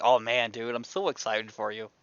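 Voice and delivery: low-key, quiet and a little low; casual. Acted. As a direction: toss off the congratulations casually. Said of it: "really casually, though".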